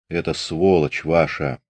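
slow, low gurgle through blood; gurgling voice. Acted. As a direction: speak while choking on blood. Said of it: "заговорил он булькающим голосом".

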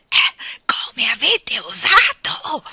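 loud, high, slow outrage; guttural outburst. A narrator's reading. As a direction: burst out, drawing the words out in indignation. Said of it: "proruppe in un mormorio gutturale". (sfogo indignato, forte e lento)

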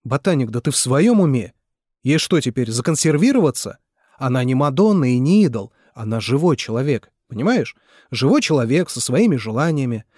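loud, hard-pressed insistence; angry retort. Acted. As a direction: hammer each point home at him. Nikolai shouts back. (Николай громко и зло отчитывает Митю)

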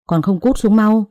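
put-on stern master snapping at the girl on his bed; shouting. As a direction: bark the order to get off the bed. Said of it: "Cậu quát lớn".

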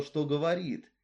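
ordinary delivery, nothing marked

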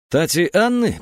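«Тати Анны?» с недоумением, выше и громче; переспросить «Тати Анны?», будто ослышался; удивлённый переспрос. Acted. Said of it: "переспросил Фил". (удивлённо переспрашивает «Тати Анны?»)

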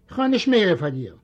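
ordinary delivery

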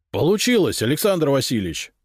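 high, triumphant exclamation; excited cry. A narrator's reading. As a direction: call out the success in amazement. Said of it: "крикнул мне Зотов". (радостный возглас высоким голосом)

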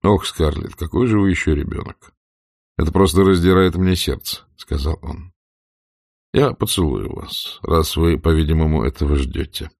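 put-on indulge her like a child; teasing Rhett. A narrator's reading.

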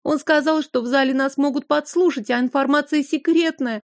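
put-on high, frightened girl's babble; dazed babbling. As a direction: stress on «сказал», rising and pleading. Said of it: "лепетала сестра, как в полубреду".

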